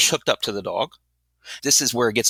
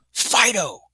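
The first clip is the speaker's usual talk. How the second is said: stern call; 7 semitones higher than usual. Retold or imitated. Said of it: "look at our dog like this and go".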